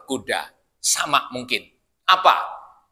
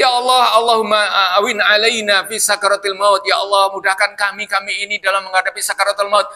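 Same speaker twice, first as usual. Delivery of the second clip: Prophet's prayer; 4 semitones higher than usual. Retold or imitated. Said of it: "Nabi ini".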